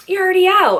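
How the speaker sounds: high, lightly mocking teacher line; a touch of Tina Fey's deadpan; Tina Fey quote. Quoting Tina Fey in Mean Girls, high mock deadpan. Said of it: "Tina Fey is like".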